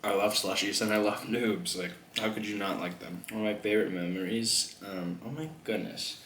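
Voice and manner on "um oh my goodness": rough voice catching; voice acting up. Real, not acted. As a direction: let the voice crack and falter. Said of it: "what's happening with my voice".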